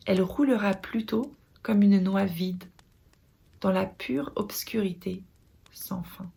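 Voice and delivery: measured poetry reading with long pauses between lines; poem recitation. Acted. Reciting Hikmet's poem on living to followers, measured poetic delivery. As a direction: recite it solemnly, phrase by phrase, letting each line settle.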